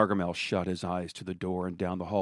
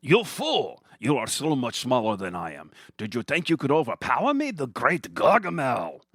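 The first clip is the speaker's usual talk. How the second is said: higher, sneering villain; gloating villain; 4 semitones higher than usual. Acted. Gargamel sneering at Billy after kicking him across the room.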